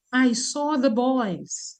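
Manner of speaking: put-on "I saw the boys" very slow and soft; slow standard model. Shown as a demonstration. Teacher modelling standard English, very slow. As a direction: say "I saw the boys" slowly, carefully. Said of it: "The standard would say".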